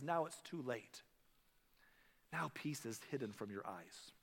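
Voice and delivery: slow, falling, fading to a hush; tearful. Retold or imitated. Preacher voicing a weeping Jesus, slow and hushed. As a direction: let the words sink with grief. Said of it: "with tears on his face".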